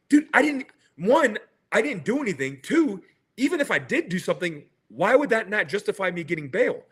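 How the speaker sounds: mildly worked-up, point-by-point self-defence; exasperated protest. Retold or imitated. Inmate protesting to his lawyer about bail, exasperated.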